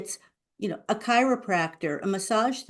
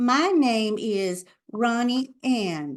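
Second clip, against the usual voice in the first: put-on very slow, childlike, drawn-out delivery; 3 semitones higher than usual. Showing the wrong way to introduce yourself: slow, childish name intro. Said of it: "Don't do the slow, childish run up to your name".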